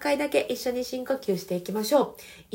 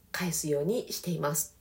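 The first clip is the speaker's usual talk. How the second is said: normal talking voice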